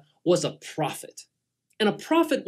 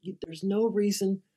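soft, steady and soothing; calm reassurance; 2 semitones higher, 5 dB quieter than usual. Acted. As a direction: settle a frightened servant gently. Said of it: "calm, and he's all collected".

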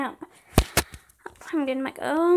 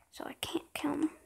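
hushed whisper, barely voiced; 12 dB quieter than usual. Real, not acted. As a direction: keep it secret, breath only. Hiding a kill from others.

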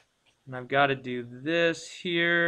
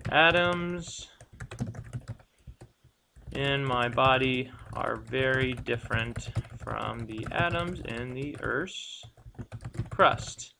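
slow dictation; slower than usual. Shown as a demonstration. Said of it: "put in my own words".

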